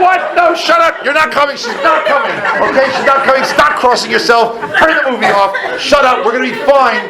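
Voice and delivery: high, loud, frantic comic scolding; acted panicked yelling. Yells at panicking fellow passengers.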